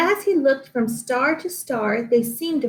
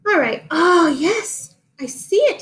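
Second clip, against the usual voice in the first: higher horse voice with a snort; 6 semitones higher, 4 dB louder than usual. A narrator's reading. Mister Brown the horse finally sees it, snorting. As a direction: snort it like a pleased old horse. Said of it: "he snorted finally".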